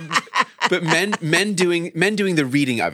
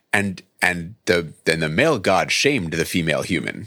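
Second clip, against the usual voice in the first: mock solemn moral; 10 semitones lower than usual. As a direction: pronounce it low, like a grave moral. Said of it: "doesn't have to end with, like".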